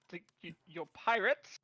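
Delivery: stuttering, rising question; stammering disbelief. Acted. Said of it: "Seaborn says".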